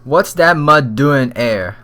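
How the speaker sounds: put-on drawn-out, half-managed British accent; bad British accent. Inspector asks about the mud, shaky attempt at British accent. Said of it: "I can't even do a freaking British accent".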